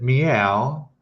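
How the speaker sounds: "meow" stretched into mee-ow; two-part "meow" with a clear M; Thai-sounding meow. Shown as a demonstration. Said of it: "it sounds Thai".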